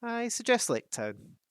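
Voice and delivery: high, slow hobbit voice; Bilbo. A narrator's reading. Bilbo answering the dwarves, high hobbit voice. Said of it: "said Bilbo".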